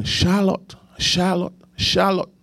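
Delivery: high-pitched airport name call; imitated calling out. Airport staff calling a woman by her middle name, calling out. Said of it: "Then they were calling".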